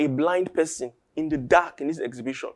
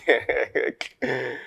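nervous laugh. Acted. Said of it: "they just start laughing".

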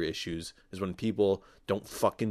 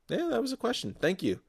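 excited. Real, not acted. Pleased a real question came.

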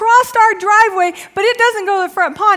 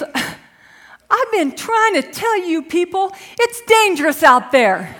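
lightly voiced daughter; slower than usual. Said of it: "she goes".

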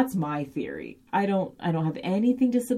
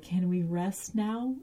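put-on childlike plea; 3 semitones higher, 3 dB quieter, slower than usual. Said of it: "this sort of childlike".

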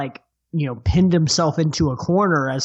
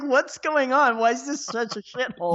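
mock podcasters; 8 semitones higher, 3 dB quieter than usual. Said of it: "They were like".

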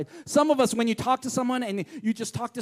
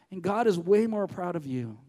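tender turn; 4 semitones lower, 4 dB quieter than usual. Real, not acted. Tender turn after the joke.

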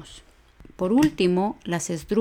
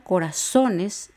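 corazones slow, with ZO stressed; prosodic stress on O; much slower than usual. Shown as a demonstration. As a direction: stretch the ZO in corazones. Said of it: "Sí se da el acento prosódico".

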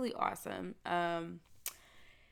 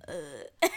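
voice crack imitation; 4 semitones lower than usual. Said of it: "It was like, it was like".

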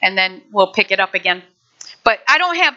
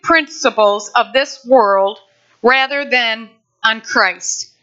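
scripture reading; 2 semitones higher than usual. Acted. Reads scripture aloud.

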